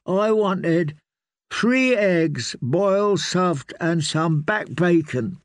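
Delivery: put-on high whiny child voice; a spoiled boy listing his breakfast; sulky boy. A narrator's reading.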